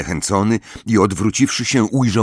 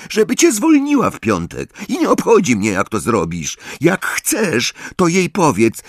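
angry team captain; 6 semitones higher than usual. Acted. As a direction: tell him off in a raised, high voice. Angry captain orders Harry.

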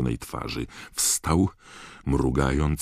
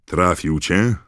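booming question, higher and louder; Moody's sepulchral thunder; 5 semitones higher, 6 dB louder, slower than usual. A narrator's reading. Moody asks Harry if he was hit, thundering. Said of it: "zagrzmiał Moody grobowym głosem".

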